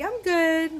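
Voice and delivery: imitating mom caught off guard; mom's surprised reply. Mom greets her unexpectedly.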